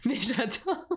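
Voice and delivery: slow "mais j'adore" through a laugh; real amused giggle while gushing. Real, not acted. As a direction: let "mais j'adore" melt into laughter, drawn out. Gushing over kitsch Christmas stickers.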